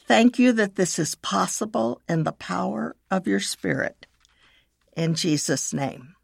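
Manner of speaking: measured, with long pauses between phrases; slow prayer reading. Shown as a demonstration. Leading listeners in a prayer of forgiveness, slowly. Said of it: "I will read it slowly".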